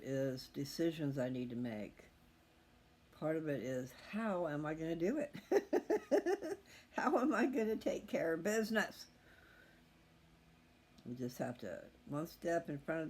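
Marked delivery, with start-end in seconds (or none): 4.1-5.3 laughing. Real, not acted. Worried laugh over moving plans. 5.4-6.9 a real, high, loud laugh breaking out; high burst of laughter. Real, not acted. Woman laughs at her own moving worries, high and loud. 6.9-9.0 louder, higher, laughing through the words; laughing question. Real, not acted. Woman asks her viewers about her plans, laughing and higher.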